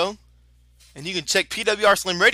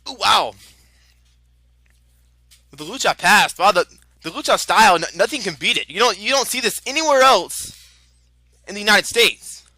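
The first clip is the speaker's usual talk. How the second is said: excited; 4 dB louder than usual. Real, not acted. Excited call of lucha action.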